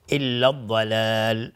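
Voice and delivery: slow, drawn-out melodic Quranic chanting; Quran recitation. Shown as a demonstration. Tajwid teacher reciting a verse for students, slow chant. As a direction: chant the verse with long held vowels.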